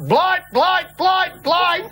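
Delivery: hammed-up cry of blight blight; mock shouting blight. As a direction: blurt it out like a panicked scientist. Mock retelling of Hales' outburst.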